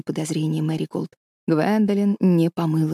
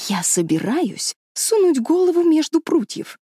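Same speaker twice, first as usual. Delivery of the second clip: решительный девчачий голос, заметно выше; упрямо и твёрдо заявить; решительно; 8 semitones higher than usual. A narrator's reading. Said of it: "решительно сказала". (решительно, голосом девочки)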